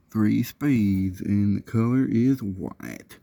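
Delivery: put-on lazy drawn-out Southern US accent on the box specs. Reviewer reading his box fan's features in a Southern accent. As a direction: read the fan specs like a Southern salesman. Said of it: "Why am I doing this with a southern accent?".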